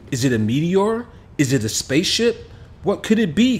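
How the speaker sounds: lightly voiced young boy, wondering; a boy asking himself in wonder; boy puzzling over what fell from the sky; curious boy Kamal.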